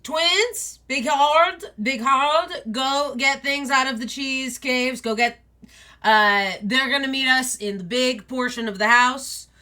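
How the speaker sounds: high, loud, cheerful pack leader; rally the whole pack, big and loud; jolly wolf father calling everyone to go; booming wolf dad. Acted. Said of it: "you see Big Dad goes".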